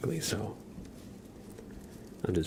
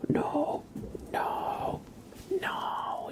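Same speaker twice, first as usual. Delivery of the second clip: pet talk; 11 semitones higher than usual. Real, not acted. Playfully talking to pet cat.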